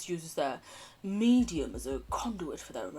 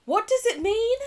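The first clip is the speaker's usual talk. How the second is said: baffled cry; 8 dB louder than usual. Acted. Baffled at performance art.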